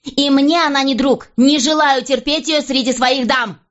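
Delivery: raging. A narrator's reading. Queen raging at the king about Jane, high and furious. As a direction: storm at him, voice shooting up.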